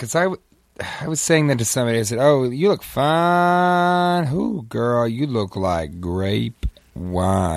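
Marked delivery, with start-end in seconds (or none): 2.2-7.6 flirty voice. Retold or imitated. Flirty pickup line acted.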